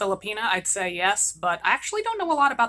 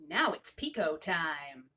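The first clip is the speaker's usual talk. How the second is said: a lower, softer, slower aside; sneaky aside; 7 semitones lower, 9 dB quieter, slower than usual. Acted. Daughter slipping off to play, quiet and sly. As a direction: sneak the line out under your breath.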